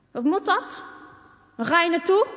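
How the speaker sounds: put-on the boy on the moped threatening Marieke; bully boy. A narrator's reading. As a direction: block her way and demand answers. Bully stopping girl.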